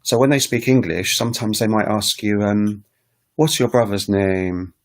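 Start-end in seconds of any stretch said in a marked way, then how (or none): 3.3-4.7 "What's your brother's name?" said a little slowly, the pitch dropping at the end like a statement; falling question. Retold or imitated. Teacher imitates Ghanaian English speakers asking with a falling tune. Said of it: "Like that".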